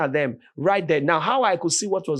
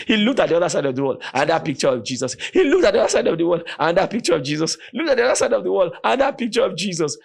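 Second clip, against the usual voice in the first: fast, rising, louder listing; building excitement; 4 semitones higher, 4 dB louder, much faster than usual. Real, not acted. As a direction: speed up with each picture. Building comic repetition.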